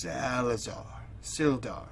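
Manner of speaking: soft, secretive call; stage whisper. Acted. Adventurer discreetly hailing a friend at night, stage whispering. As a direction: call the name under your breath. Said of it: "Yeah, stage whispering".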